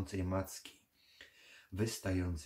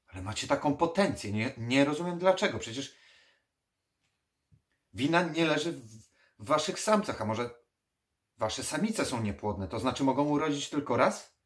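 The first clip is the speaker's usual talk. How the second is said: fast, loud, higher-pitched protest; baffled, stumbling, raised voice; agitated questioning; 7 semitones higher, 7 dB louder, faster than usual. Acted. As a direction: press the question, tripping over the words. Baffled necromancer questions the vampire.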